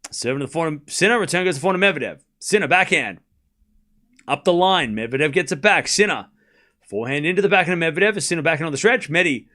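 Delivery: running shot-by-shot call; live tennis commentary; play-by-play. Acted. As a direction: narrate every shot fast.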